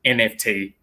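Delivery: Kiwi accent; New Zealand accent. Shown as a demonstration. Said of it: "just say N F T in the New Zealand accent".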